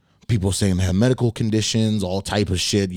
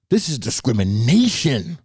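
slower, drawn-out repeat in a put-on voice; offended customer; 4 semitones higher than usual. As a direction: lean into the grievance, slowly. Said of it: "She's like".

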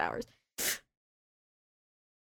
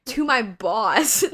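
normal talking voice

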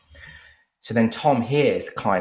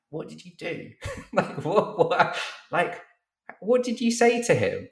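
very high, incredulous mock squeak; amazed questioning; 11 semitones higher than usual. Colleague asking Tom at lunch about the client, high amazed questioning. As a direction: ask it high and halting, in disbelief.

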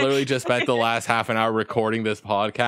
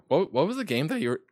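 voice cracking; 6 semitones higher, faster than usual. Real, not acted. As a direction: voice cracks mid-question. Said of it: "that voice crack".

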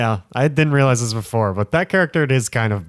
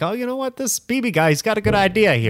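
much higher dopey voice; mock Henry Ford voice; 10 semitones higher than usual. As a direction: play the clueless boss. Mocking Henry Ford mid-race.

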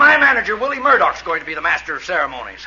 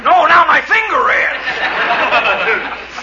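slow pained; 6 semitones higher, 4 dB louder, much slower than usual. Acted. Whimpering after hammer blow.

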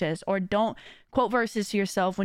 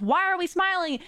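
higher, confused brain voice turning relieved; mock-confused inner voice, higher; voicing the brain; 6 semitones higher than usual. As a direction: play your own brain puzzled, then realising all is fine. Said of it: "your brain goes".

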